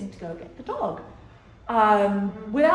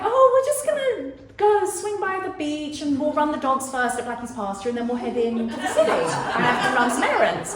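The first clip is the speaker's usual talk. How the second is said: higher, breezy and innocent; faux-casual cover; 4 semitones higher than usual. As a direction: sell it lightly so he won't suspect. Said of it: "So I was kind of like".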